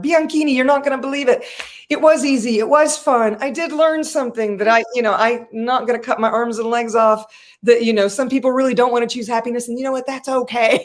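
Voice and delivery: mildly giddy re-enacted self-talk; elated retelling. Elated, telling her car the news.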